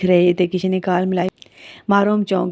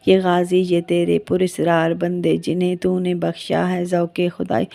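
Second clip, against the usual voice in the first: slow, measured recital of Urdu verse; poem recitation. Acted. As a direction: recite the couplets slowly and solemnly. (धीमी, ठहरी हुई शायराना अदायगी)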